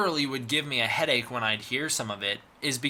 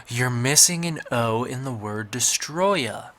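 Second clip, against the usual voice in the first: slow, a little louder, know-it-all commenter; mock nitpicking commenter; 4 dB louder than usual. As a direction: lightly play a smug fan pointing out the typo. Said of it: "pointed it out in the comments saying".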